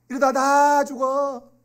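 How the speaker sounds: high, loud, drawn-out warning cry; familiar-line impression. Preacher echoing a familiar doom line to children, slow high cry. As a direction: stretch it into a slow, high holler. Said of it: "듣던 것 같은데".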